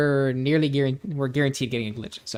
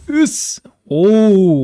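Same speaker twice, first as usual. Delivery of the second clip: high, loud burst of joy; excited yell; 8 semitones higher, 11 dB louder than usual. Real, not acted. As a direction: yelp with delight at the roll. Great stats rolled.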